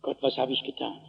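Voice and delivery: low, very quiet, stunned realisation; erschüttert. Acted. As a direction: drop to a hushed, horrified self-reproach. Kain kommt entsetzt zu sich. (leise, tief erschüttert)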